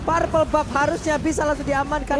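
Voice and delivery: high, fast excited commentary; live play-by-play. Real, not acted. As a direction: call the fight at full pace. (komentar langsung yang cepat dan bersemangat)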